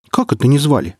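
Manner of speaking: stunned question, stress on "не"; 「не」を押して呆然と聞き返す; taken aback. Acted. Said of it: "опешила голова".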